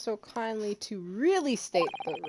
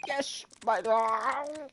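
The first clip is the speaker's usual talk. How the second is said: cute anime streamer; much slower than usual. Acted. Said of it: "That both sounded like a little anime girl".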